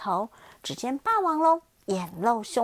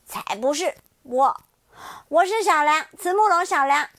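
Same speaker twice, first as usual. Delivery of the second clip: loud, higher, resolute; defiant declaration; 3 semitones higher, 8 dB louder than usual. Acted. Xiaoliang telling the T-rex who he is, loud defiance. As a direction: claim your name proudly.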